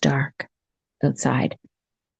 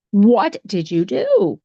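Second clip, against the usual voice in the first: slow, higher-pitched motherly demand; alarmed demand; 4 semitones higher, much slower than usual. Acted. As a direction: draw out a mother's mock alarm. Mother confronts girl over whistle.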